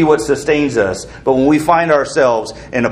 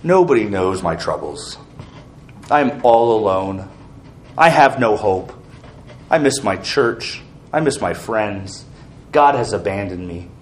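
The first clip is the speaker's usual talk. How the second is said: lower, softer mock self-pity; 4 semitones lower, 3 dB quieter than usual. Preacher imitating a depressed Christian's voice, low and softer self-pity. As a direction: voice the moping inner talk of a depressed believer. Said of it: "what sort of language do you hear".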